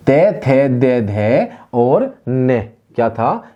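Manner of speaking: ते थे दे धे ने stated clearly, slowing at the end; teacher reciting ते थे दे धे ने; syllable demo. Shown as a demonstration. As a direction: recite ते, थे, दे, धे for learners. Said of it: "दंत से बोले जाने वाले कौन से थे".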